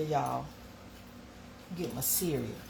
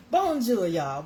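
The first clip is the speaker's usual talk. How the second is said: cheery French greeting; 2 semitones higher, 5 dB louder, slower than usual. Shown as a demonstration. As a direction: call out a bright hello to Charlene. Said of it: "that's my French".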